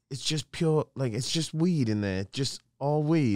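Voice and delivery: lightly imitated British accent. British guy reacting to what he was told, imitated British accent. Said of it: "you got a pretty good accent there".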